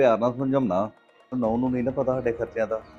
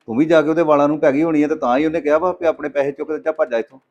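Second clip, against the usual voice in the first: raised, louder scolding voice; angry scolding; 4 semitones higher, 6 dB louder than usual. Acted. Husband scolds wife over the money, angry and raised. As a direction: tell her off sharply, voice up.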